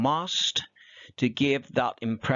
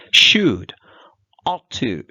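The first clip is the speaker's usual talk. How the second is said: whispered heading; 10 dB louder, slower than usual. Shown as a demonstration. Teacher whispering the new topic to her class. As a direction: whisper the two words crisply.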